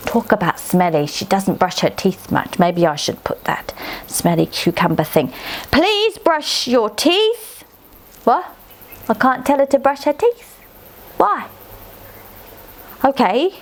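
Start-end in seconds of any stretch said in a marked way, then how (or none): 5.7-7.6 very slow, higher, drawn out; slow dictation. Pretend. Child slowly dictating a line to her aunt, very slow. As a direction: stretch every word as you write it.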